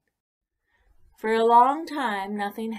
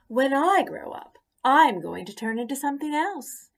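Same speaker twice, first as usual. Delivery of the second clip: proud bragging caterpillar; 6 semitones higher, 4 dB louder than usual. Acted. Caterpillar brags to pollywog.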